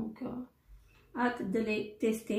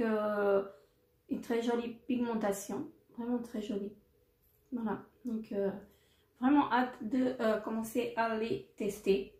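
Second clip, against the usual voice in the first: normal talking voice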